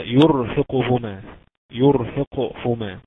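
slow, loud يرهقهما with a heavy still R after "yu". Shown as a demonstration. Teacher showing still ra after damma, heavy ra. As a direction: draw out يرهقهما, leaning on the thick ر. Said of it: "لو ساكنة وقبلها مضموم".

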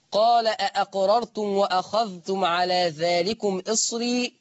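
slow measured recitation of the verse; Quran recitation. Shown as a demonstration. Teacher recites the verse to the class. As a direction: intone the verse slowly. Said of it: "reciting the verse".

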